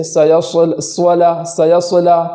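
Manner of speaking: سولا with a lip-rounded w after the ص; wrong w sound. Shown as a demonstration. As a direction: round the lips on ص in سیصلا. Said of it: "غلط پڑھا جاتا ہے واو کے ساتھ".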